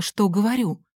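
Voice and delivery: usual speaking voice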